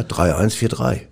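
spelled out slowly, digit by digit; deliberate, slow recital of a code; slow deliberate numbers. Real, not acted. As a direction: read each digit out slowly and clearly. Slowly reads out PIN.

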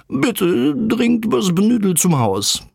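very high, wobbly call from the sky; high bird cry with muddled syllables; croaking bird, garbled words. A narrator's reading. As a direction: stretch and jumble the words as if windblown. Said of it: "wirbelte die Buchstaben durcheinander".

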